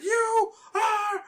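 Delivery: high, laughing, tearful squeal. Retold or imitated. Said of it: "She was like".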